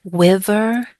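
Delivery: wiver, with a w sound in place of the r; teacher imitating a student who says wiver for river; imitated w for r. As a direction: copy a learner's wiver. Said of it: "I've had people say".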